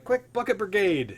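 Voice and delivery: slow, high, loud rallying call; guard rallying help; yelled order. Acted. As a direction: holler orders across the building. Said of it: "And as he yells".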